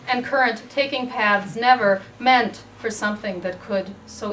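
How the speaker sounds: measured poem recital, pausing between phrases; poetry reading. Acted. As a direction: read it as a poem, each phrase set apart. Reads own poem aloud.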